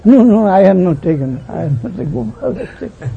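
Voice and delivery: high, loud then fading denial; a boy pleading his innocence; child's protest. Acted.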